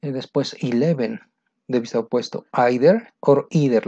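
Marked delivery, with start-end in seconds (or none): 1.7-3.9 either said first with a long ee, then with a long eye; either or either, both ways; two pronunciations. Shown as a demonstration. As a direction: give both readings of either. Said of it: "La pronunciación, no te preocupes".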